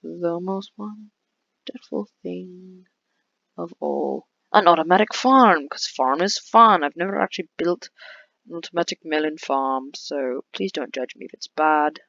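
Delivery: put-on playful, clumsy British accent; joking attempt at a British accent; bad British accent. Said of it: "I don't know why I'm talking with a British accent".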